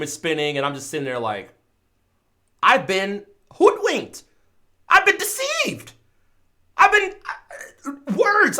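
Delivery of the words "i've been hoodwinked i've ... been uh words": melodramatic betrayal. Retold or imitated. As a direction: ham up being deceived.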